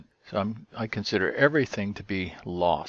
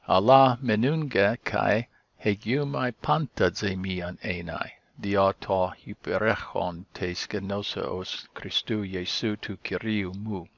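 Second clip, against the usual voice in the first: slow Greek reading. Acted. Reads Greek verse aloud.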